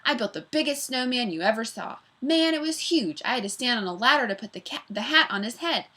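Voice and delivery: barrel through the story like a train; freight-train chatter. Acted. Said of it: "Mac's voice was like a freight train".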